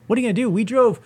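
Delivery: high-pitched incredulous comeback; retold outraged disbelief; indignant echo. Throws the dismissive line back, outraged.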